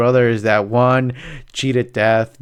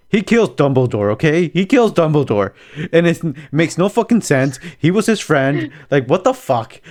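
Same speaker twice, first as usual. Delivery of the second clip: outraged rant; 4 semitones higher, 3 dB louder than usual. Retold or imitated. Dad ranting about the plot.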